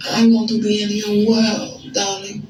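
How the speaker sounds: a hint of French accent, coaxing; fake French accent. Woman on the phone charming her date in a fake French accent. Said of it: "I spoke in a French accent the entire time".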